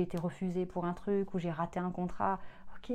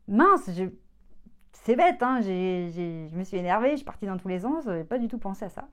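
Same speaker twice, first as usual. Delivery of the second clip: mock exasperation; 6 dB louder than usual. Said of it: "retold inner voice".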